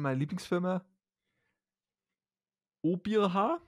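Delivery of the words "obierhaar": Haribo spoken backwards as Obierhaar. Shown as a demonstration. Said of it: "Rückwärts gesprochen". (rückwärts gesprochenes Obierhaar)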